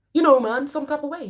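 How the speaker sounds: loud, high, insistent "some type of way"; mock client, emphatic. Mimicking a client who can't name the feeling, loud and insistent. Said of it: "I said".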